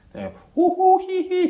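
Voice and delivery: high, loud hoo hoo hee hee; mock hooting noises. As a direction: imitate the jeering noises. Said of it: "try to make noises".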